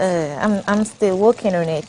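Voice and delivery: half-hearted Italian accent that sounds like Kano; attempted Italian accent. Shown as a demonstration. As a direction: try an Italian accent and miss. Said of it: "That one is Kano".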